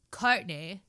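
very slow drawn-out socialite voice; Kardashian parody. Retold or imitated. Parody sister confronting Kourtney at home, slow drawl. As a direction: stretch each word like a spoof reality star. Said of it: "she was mimicking, like, each one".

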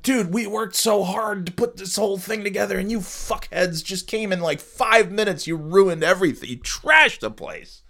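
aggrieved Shrek pleading; whiny Shrek. Retold or imitated. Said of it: "poor Shrek is like".

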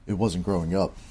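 deep weathered bounty hunter; gunslinger voice. Shown as a demonstration. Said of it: "I'm gonna try to do this in the gunslinger's voice".

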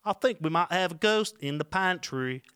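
bad British accent. Shown as a demonstration. Co-host keeps attempting British after teasing, loud and clumsy British accent. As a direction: push on with a wobbly British accent. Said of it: "do a British accent".

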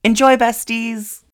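high, loud, slow cheer; excited sign-off. Real, not acted. Sending listeners into the episode, excited cheer. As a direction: sing out the goodbye to the fans.

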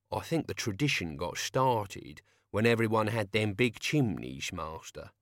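put-on old servant calling down a pipe; far-off voice echoing through a tube; shouting down a pipe. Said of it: "coming from someone standing on the roof and shouting down the pipe".

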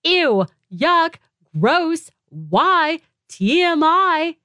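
squirm at too much information; hammed-up disgust, slowing on the last words; mock disgust. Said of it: "things that make me go".

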